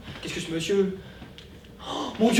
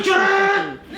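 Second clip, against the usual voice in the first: sudden shout; 8 semitones higher than usual. Acted. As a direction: cry the Non out in passion. Lover's outburst of passion.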